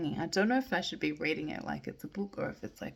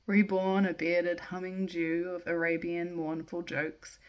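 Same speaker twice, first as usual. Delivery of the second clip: measured poem recital, line by line; casual, unrehearsed poetry reading; slower than usual. Acted. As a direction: read verse aloud with pauses at line breaks. Reads a poem aloud.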